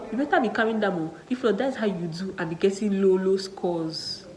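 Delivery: stern warning. Retold or imitated. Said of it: "She said".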